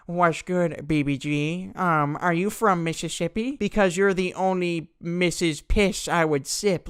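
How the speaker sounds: put-on sleazy would-be charmer voice; mock smooth talker. Kid tries to rizz up Crystal, mock smooth-talker voice. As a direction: ham up a slurred, creepy pickup line. Kid's pickup line in put-on voice.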